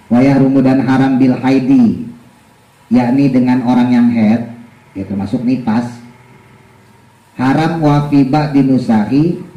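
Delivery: slow, measured kitab recitation; deliberate teacher's text reading; reading a religious text aloud. Real, not acted. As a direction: read the Arabic and gloss it slowly. Reads and translates the text.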